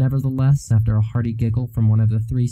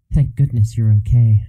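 breathy relief; 3 dB louder than usual. Acted. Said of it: "she breathed in relief".

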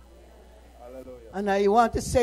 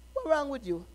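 a quiet, puzzled ask; a hushed first try at the question; soft question; 4 semitones higher, 6 dB quieter than usual. Acted. Preacher voices imagined question softly.

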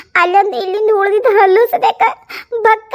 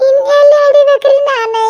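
anguished cry, a little louder; desperate outcry; 3 semitones higher, 3 dB louder than usual. Acted. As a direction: cry out in despair. (ಹತಾಶೆಯ ಕೂಗು)

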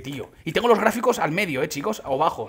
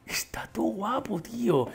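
tag awed whisper; 4 semitones higher, 7 dB quieter, slower than usual. Real, not acted. Awed reaction to new skin.

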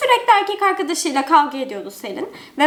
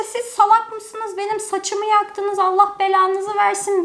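mock yell; 5 semitones higher, slower than usual. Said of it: "bilmem ne bağırıyor".

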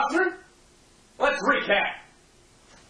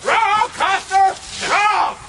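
barked correction; 4 semitones higher, 3 dB louder, slower than usual. Acted. Sergeant rejects answer.

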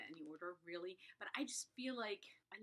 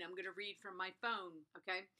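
normal talking voice

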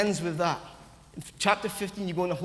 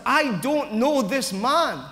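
insistent denial; 4 semitones higher, 4 dB louder, slower than usual. Retold or imitated. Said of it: "his denial is that".

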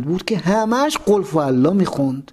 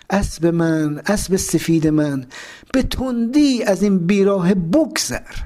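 slow, measured verse recitation; song lyrics recited. Retold or imitated. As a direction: recite the lyrics line by line, unhurried.

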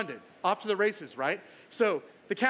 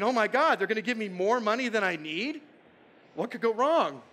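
excited. Retold or imitated. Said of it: "Now I'm excited".

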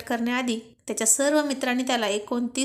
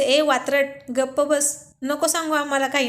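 a louder mock scolding of a cheeky friend; teasing yell; 4 dB louder than usual. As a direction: shout them down, laughing at him. Friends tease the groom. (मित्र अर्जुनला चिडवत ओरडतात, थट्टेचा ओरडा)

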